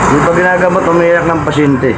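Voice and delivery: teasing announcement. Real, not acted. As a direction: announce it playfully, stretching the ends. Teasing patient, announcing to viewers.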